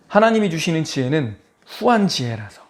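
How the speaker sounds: normal talking voice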